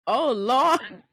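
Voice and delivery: put-on old man's weary groan. Old man's reaction retold.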